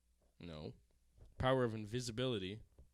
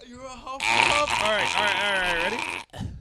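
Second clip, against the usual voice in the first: excited; 7 semitones higher, 12 dB louder than usual. Real, not acted. Excited about result.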